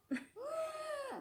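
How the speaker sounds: high burst of laughter cracking into a crying yell; embarrassed mother laughing and nearly crying at once; laughing sob. Real, not acted. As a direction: laugh it out close to tears. Laughing through upset story.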